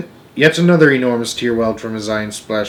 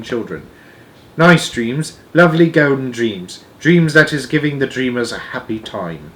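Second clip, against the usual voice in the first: lightly voiced earnest giant, pitched up a little; BFG; 3 semitones higher, 5 dB louder than usual. The giant explains dream-blowing to Sophie, lightly earnest. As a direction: quaint storybook giant sharing a secret.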